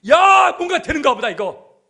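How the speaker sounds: high, loud burst of excitement; excited. Acted. Disciples worked up on entering Jerusalem, excited shout. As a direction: shout it out, thrilled at what is coming. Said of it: "흥분된 상태예요".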